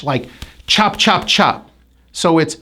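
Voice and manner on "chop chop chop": "chop" repeated with a strong CH onset; CH sound. Shown as a demonstration. Teacher illustrates the C H sound, separate "chop" repeats. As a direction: punch out each CH in "chop". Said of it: "pronounced as a C H".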